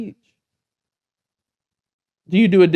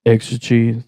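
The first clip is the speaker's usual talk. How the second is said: drive thru voice; 6 semitones lower than usual. Shown as a demonstration. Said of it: "Let me hear your drive-thru voice".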